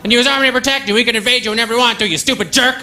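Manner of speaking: high, hammed-up irate American voice; mock angry American. American heckler mocking a Canadian, high and hammed-up. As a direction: squeal it out like an offended patriot. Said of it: "He's like".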